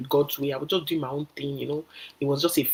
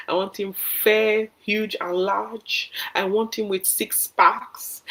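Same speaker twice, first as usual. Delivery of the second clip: mocking wishlist; 5 semitones higher than usual. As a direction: spell out each wish like a spoiled bride. Mocking a picky bride's wishlist.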